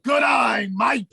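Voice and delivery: amateur Australian accent. Shown as a demonstration. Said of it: "Now say all three together".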